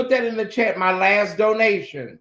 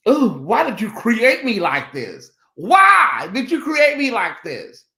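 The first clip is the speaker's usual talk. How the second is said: dramatic lament; 5 dB louder than usual. Real, not acted. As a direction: cry out to the sky, theatrically. Melodramatic lament to the heavens.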